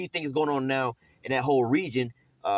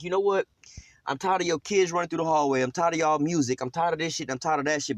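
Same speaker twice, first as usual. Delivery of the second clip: mildly acted exasperation, starting higher; fed-up tenant; 4 semitones higher than usual. Tenant complaining about the other neighbors, mildly fed up. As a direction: list the grievances like a fed-up neighbor.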